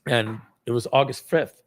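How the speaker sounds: ordinary talk, nothing marked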